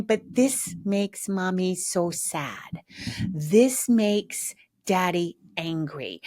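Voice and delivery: lightly voiced parent laying it on; guilt-tripping parent. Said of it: "They're oversharing their process".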